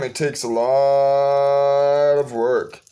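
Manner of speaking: "It takes a lot of work" drawn out very slowly; slow, emphatic. Acted. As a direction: stretch every word to let it sink in. Repeats the point for weight.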